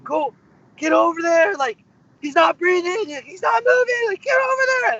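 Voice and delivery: high, loud frantic yell, pitch climbing; retold frantic yelling. Surfer yelling at another surfer to reach his unconscious dad, frantic high shout. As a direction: shout across the water in a panic. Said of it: "So I was screaming at him".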